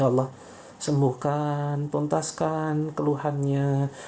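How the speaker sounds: earnest spoken prayer. Acted. Healer prays aloud for viewers on the live stream, earnest. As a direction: plead with God for the viewers.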